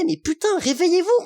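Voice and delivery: exasperated cry. Real, not acted. Vlogger pleading with French viewers, exasperated cry. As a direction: beg them to wake up, fed up.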